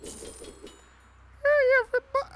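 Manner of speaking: very high squeaky put-on voice; mock voice-changer falsetto, far above your own pitch; Belle Delphine. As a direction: pretend to be a high-pitched streamer girl. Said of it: "Belle Delphine equals Doc".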